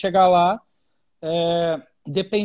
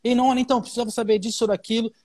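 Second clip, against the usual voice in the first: higher, abrupt and pushy opening; blunt Brazilian way; 4 semitones higher, faster than usual. Shown as a demonstration. Portuguese friend demoing the rude Brazilian approach, abrupt. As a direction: barge straight in without a greeting. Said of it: "se você já chegar falando, que nem às vezes o brasileiro faz".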